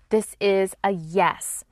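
slow unvoiced whisper. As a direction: hush it like a secret inner yes. Voicing intuition saying yes.

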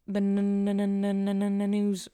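stuttering on the n sound; stuttering, shivering with cold. Real, not acted. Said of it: "I'm, like, cold, so that's why I'm, like, stuttering".

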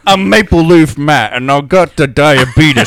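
hammed-up Canadian accent, loud; goofy Canadian hoser voice. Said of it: "Canadian accent, Canadian accent".

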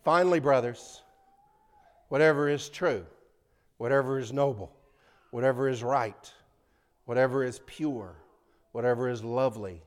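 loud, rhythmic reading punching each "whatever"; scripture recitation. Shown as a demonstration. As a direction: recite it like a preacher, hitting "whatever". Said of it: "here comes your test".

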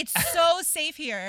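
drawn out, high and loud "so safe here"; slow mocking repeat. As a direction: lean on "so" with slow sarcasm.

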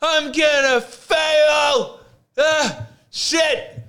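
high, slow panicked yell; panicked shout. Retold or imitated. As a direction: cry out in sudden panic. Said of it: "I'm like".

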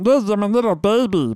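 put-on baby voice. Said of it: "it's kinda that baby voice".

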